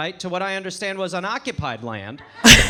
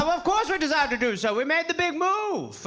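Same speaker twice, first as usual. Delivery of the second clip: high, hammed-up British old boy; old dusty gentleman; 8 semitones higher than usual. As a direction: play a stuffy colonial Brit, stretching the end. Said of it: "two old dusty white dudes".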